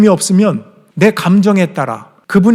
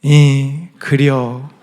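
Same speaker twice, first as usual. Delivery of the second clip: brief Chungcheong "그려", lightly voiced; mother's short fond agreement; mother's dialect reply; much slower than usual. Mother closing the phone call with a Chungcheong "그려". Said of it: "그럼 어머니가 마지막에".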